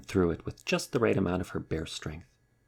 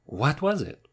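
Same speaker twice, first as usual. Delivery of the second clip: high, breathless question; panting; 9 semitones higher, 4 dB louder, slower than usual. A narrator's reading. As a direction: puff it out running. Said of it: "panted Wolf".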